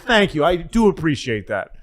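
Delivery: high, mildly frazzled thanks; lightly acted overwrought gratitude; grateful harried staffer. Staffer thanking a kind caller, high mock-grateful reply. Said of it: "He said".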